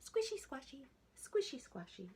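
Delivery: high, squealy piglet voice, defiant; piggy voice. A narrator's reading. The piggy answering her family, high piggy voice. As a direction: sing it out like a stubborn little pig. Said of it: "But the piggy answered".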